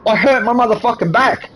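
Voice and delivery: sustained high-pitched angry ranting. Real, not acted. Man rants to interviewer about his back, high and angry. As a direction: vent it all, voice held up high.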